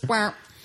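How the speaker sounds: comic sad-trombone wah, wah; jokey deflated wah-wah; mock wah-wah noise. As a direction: imitate a little letdown sound effect. Imitated deflating noise as a joke.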